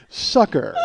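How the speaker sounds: smug, self-important delivery; smirking. Retold or imitated. Customer leans over the counter to give the secret word, smirking. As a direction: say it with a knowing smirk. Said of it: "with a smirk on my face".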